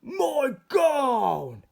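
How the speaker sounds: high, loud shout of delight; high happy shout; joyful yell. A narrator's reading. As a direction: yell it, finding the lost gown. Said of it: "he yelled".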